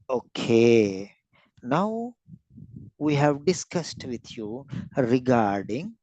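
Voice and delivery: measured, signposted handover between topics; smooth transition demo. Shown as a demonstration. Teacher modelling talk on self-injecting insulin, smooth transition. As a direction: move gently from one step to the next, pausing between phrases. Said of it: "So, smooth transition".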